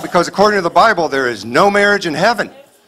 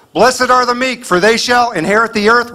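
mock Jesus preaching; 6 semitones higher than usual.

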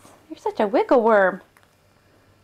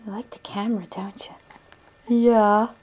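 whispering. Real, not acted. Whispering to baby.

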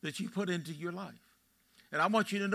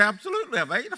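hearty retold answer; 6 semitones higher, 6 dB louder, faster than usual. Joking reply to Bronx recruit.

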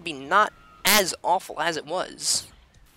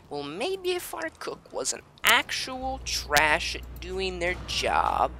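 snooty voice; 3 semitones higher, slower than usual. Acted.

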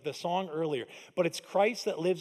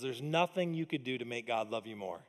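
quiet quote; 6 semitones lower, 7 dB quieter than usual. Retold or imitated. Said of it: "Graham Cook says".

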